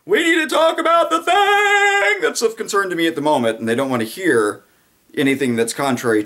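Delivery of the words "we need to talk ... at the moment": sing-song, very high talk-show host voice; high, sung mock host; Oprah. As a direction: croon it like a daytime host steering the talk. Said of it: "They're like Oprah".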